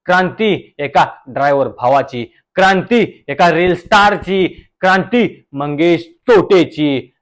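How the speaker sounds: slow, solemn declaration; grand proclamation. Acted. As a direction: proclaim it like a leader. Guest proclaims a revolution. (सावकाश, भाषणासारखं जाहीर करत)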